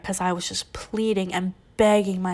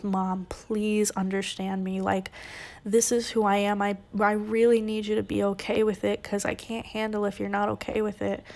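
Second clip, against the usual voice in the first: soft pleading; 3 dB quieter than usual. Retold or imitated. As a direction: beg gently, slowing right down. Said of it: "I'm pleading".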